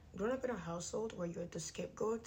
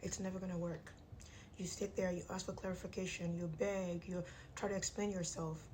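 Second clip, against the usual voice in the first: talking through clenched teeth; jaw wired shut. Real, not acted. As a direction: speak with teeth wired together. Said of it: "My jaw is wired shut".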